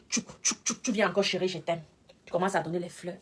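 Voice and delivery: imitating a lover's soft plea; mock tender whisper. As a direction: coo it like a woman begging her partner back. Mimics a woman crawling back.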